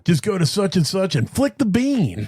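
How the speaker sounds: smooth radio announcer read. Pretend. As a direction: pitch it like a radio ad. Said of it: "That was my F M radio voice".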